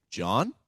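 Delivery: "John?" with the pitch lifting at the end; questioning upswing on "John?". Shown as a demonstration. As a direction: say "John?" as a rising question to catch attention. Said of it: "what's called a voice up".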